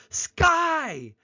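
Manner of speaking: put-on very high, loud childlike echo; child echoing back. Other child nods and repeats the word, high childlike echo. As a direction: confirm it in a high, loud kid voice. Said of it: "nods and goes".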